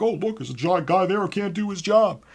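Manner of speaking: lightly voiced sneering customer; mock sneering jab. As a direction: needle the clerk in a put-on voice. Customer muttering insult.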